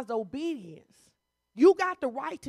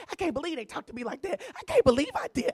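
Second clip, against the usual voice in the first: mock complaining; 4 semitones higher, faster than usual. Mocking people who complain to God.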